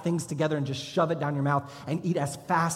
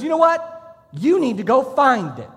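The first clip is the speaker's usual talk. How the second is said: drill instructor yell; 8 semitones higher, 9 dB louder than usual. Retold or imitated. Drill instructor yelling at a recruit in the chow hall, loud bellow. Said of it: "And he goes".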